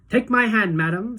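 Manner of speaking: gallant. A narrator's reading. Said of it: "said Mister Wonka gallantly".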